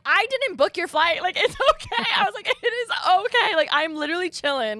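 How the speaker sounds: high, emphatic, half-laughing protest; insistent reassurance. Retold or imitated. Friend telling him it's okay, playful insistent reassurance. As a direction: wave off the apology in an exaggerated high voice.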